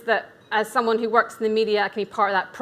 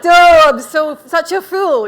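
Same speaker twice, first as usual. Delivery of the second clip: loud, high "duh" at herself; mock herself, much louder and higher; self-mocking; 7 semitones higher, 12 dB louder, slower than usual. Mocks her own past self.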